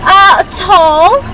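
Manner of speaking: short answer in put-on British accent. Telling the barista the size, British accent. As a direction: keep the British accent going. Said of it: "that accent when you order your Starbucks".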